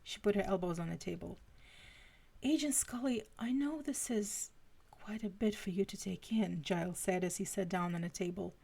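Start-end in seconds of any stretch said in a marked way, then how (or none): 2.4-6.6 lightly put-on British accent; Giles's British accent. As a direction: explain it with a hint of a British accent. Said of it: "It had to be the accent".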